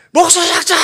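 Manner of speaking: loud barked command; drill sergeant yell. Retold or imitated. Drill sergeant yelling in army.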